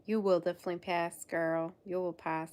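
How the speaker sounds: put-on light playful southern US accent; lightly put-on southern twang. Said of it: "feel the need to do a southern accent".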